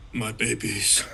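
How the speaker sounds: put-on Schwarzenegger accent. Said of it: "keep Ock as Arnold Schwarzenegger".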